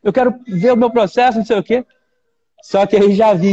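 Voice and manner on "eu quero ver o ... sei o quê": retold complaint in a raised pitch; high-pitched mock protest; indignant prosecutor. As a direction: mimic an indignant prosecutor, higher and insistent. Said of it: "o promotor de justiça ficou indignado".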